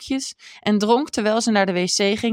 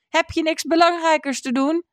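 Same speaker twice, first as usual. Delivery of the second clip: a high, sharp call through the window; 10 semitones higher than usual. Acted. Busy woman calls to her neighbour through the window, irritated. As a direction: snap it out at the neighbour, pitched up high. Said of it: "riep ze door het raam".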